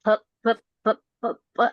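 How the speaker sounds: p, p, p as dry puffs of air with no voice; voiceless p puffs; repeated unvoiced p. Shown as a demonstration. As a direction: tap out p again and again. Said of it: "just try making only the p".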